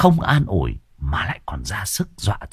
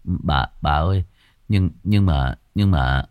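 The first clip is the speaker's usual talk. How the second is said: stammering; 3 semitones lower than usual. Acted. Servant pleading with mistress, stammering low. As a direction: trip over the words in fear. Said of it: "Anh Dần lắp bắp".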